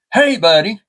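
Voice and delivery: high-pitched mimicking crow voice; talking crow. Pet crow echoing its owner, high mimicking voice. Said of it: "Then she said".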